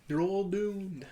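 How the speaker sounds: put-on high, creepy old man voice; crazy blind man. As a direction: croak out the doom warning. Blind man quote again.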